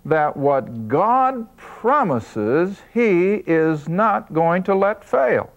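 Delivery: slow, deliberate emphasis; a teacher slowing right down on the key point; taken slowly. Shown as a demonstration. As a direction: spell out each word slowly so they remember. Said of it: "I'm taking it slowly".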